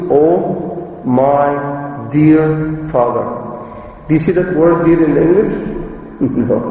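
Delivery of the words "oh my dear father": tender, slow address. Shown as a demonstration. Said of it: "In Arabic, it means".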